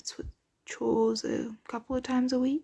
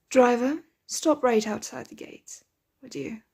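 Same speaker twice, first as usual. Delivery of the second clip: raised voice with a rising lilt; louder, lifted hail to a servant; calling out; 4 dB louder than usual. Acted. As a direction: call up to the driver. Calling out to the carriage driver.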